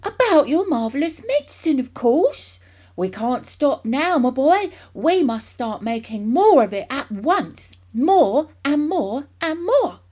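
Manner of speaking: loud, high, booming enthusiasm; an excited father proclaiming his big plan; hugely excited. A narrator's reading. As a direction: build to a slow, ringing finish. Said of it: "in a state of greater excitement".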